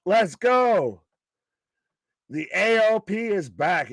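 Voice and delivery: high-pitched, happy hype; real excitement. Real, not acted. Fan welcomes the A O P back, excited high voice. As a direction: cheer the return with the pitch lifted. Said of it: "you popped, and you were excited".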